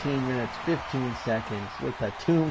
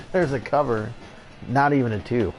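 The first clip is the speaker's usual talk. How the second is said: play-by-play commentary. Acted. Play-by-play of the next match.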